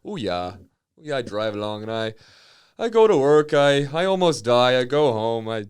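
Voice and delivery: hammed-up Fargo accent, stretched vowels. Northern trucker recounts his daily grind, Fargo accent. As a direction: play a weary Fargo-style northerner. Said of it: "talk like Francis McDormand from Fargo".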